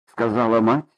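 ordinary delivery

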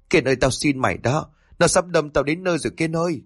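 mild mock-tearful pleading; tearful begging. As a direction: beg your friend, a touch panicky. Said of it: "vừa khóc vừa van xin". (van xin hơi mếu máo)

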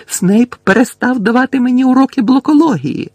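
high, loud yell; full-voiced outraged yell. A narrator's reading. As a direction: scream the complaint out. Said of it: "зарепетував Гаррі".

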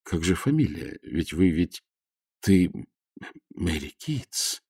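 тихо, сбивчиво, со слезой; растерянно лепечет, голос дрожит; пролепетал. A narrator's reading. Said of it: "пролепетал Загорский". (растерянный лепет потрясённого отца)

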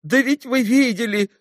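captain showing the bare room; despairing captain. A narrator's reading. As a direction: point at the poverty in despair.

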